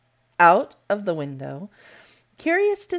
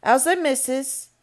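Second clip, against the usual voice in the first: higher, altered broad Yorkshire voice; rough good-natured Yorkshire question; Yorkshire accent; 7 semitones higher, 4 dB louder than usual. A narrator's reading. Station master asking Medlock, broad Yorkshire. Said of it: "pronouncing his words in a queer, broad fashion".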